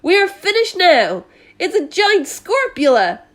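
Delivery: high, loud despairing cry; terrified fire chief. Acted. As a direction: wail that all is lost.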